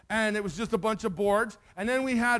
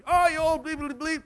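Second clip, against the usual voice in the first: put-on high-pitched kid's name-calling; retold taunt with bleeped insults; mock telling-off; 6 semitones higher than usual. Boys tell off the bully from their fort, mock scolding. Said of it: "telling him off".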